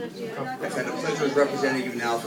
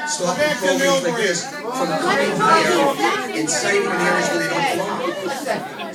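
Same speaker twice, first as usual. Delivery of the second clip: impassioned push; 10 semitones higher, 6 dB louder, slower than usual. Real, not acted. Impassioned speech against the shelter.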